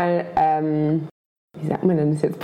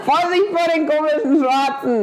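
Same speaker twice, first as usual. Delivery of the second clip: put-on Saxon accent; 7 semitones higher than usual. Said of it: "unsere MitbürgerInnen aus dem Osten".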